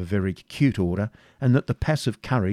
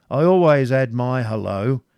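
louder, drawn-out voice of a yeoman; bold yeoman; 3 semitones higher, 6 dB louder than usual. A narrator's reading. Yeoman explaining his applause to the prince, bold and loud. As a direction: answer the prince unabashed.

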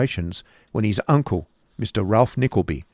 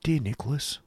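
put-on soft, higher young woman's undertone; soft whisper; 5 semitones higher, 6 dB quieter than usual. A narrator's reading. Sister touching her brother's arm, whispering. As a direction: say it softly and discreetly, pitched up. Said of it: "whispered Kate".

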